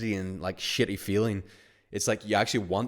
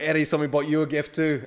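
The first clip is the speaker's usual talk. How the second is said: teasing announcement; 7 semitones higher, 6 dB louder than usual. Acted. Teasing setup for prank.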